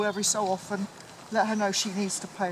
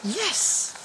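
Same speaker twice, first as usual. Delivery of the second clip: squeaky praising a dog; 8 semitones higher, 4 dB louder than usual. Real, not acted. Praising puppy off lead.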